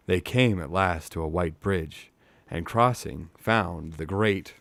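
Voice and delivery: measured storyteller's reading with pauses; story narration. A narrator's reading. Reading a fantasy novel to live listeners, measured narration. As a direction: read it like an audiobook.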